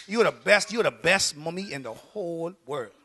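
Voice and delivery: soft, low, lightly acted sweet praise; adoring child. Kid praising mommy today, imitated tenderly.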